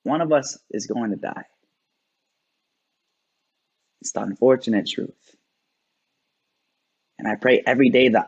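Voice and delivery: restrained spoken word with long, weighted pauses; sombre slam poem. Acted. Poet facing the death of a partner, restrained spoken word. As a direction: let each hard truth sit in silence.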